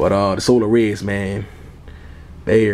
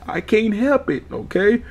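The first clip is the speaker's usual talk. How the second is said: laughing; 10 semitones higher than usual. Real, not acted. Laughing high defiance.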